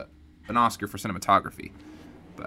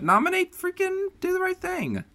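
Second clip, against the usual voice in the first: indignant outburst; 4 dB quieter, faster than usual. Real, not acted. Indignant outburst about snub.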